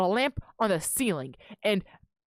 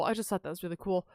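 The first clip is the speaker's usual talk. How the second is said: softer, murmured repeat to herself; quiet repeat; 3 semitones lower, 7 dB quieter, faster than usual. Real, not acted. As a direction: drop the volume and say it again for yourself.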